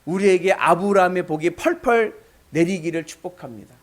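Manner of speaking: ordinary talk, nothing marked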